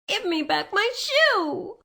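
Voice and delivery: put-on high, slow, angry child; angry demand. A narrator's reading. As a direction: demand the shoe back angrily. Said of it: "grew angry and said to the witch".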